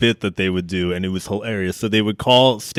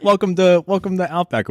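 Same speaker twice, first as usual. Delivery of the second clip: lightly mock host; 9 semitones higher than usual. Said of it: "they'd be like".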